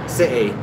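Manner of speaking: CITY with a glottal stop in place of the T; London-style City, no T sound; dropped T. Shown as a demonstration. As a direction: leave the T out of City. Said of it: "you don't need the T".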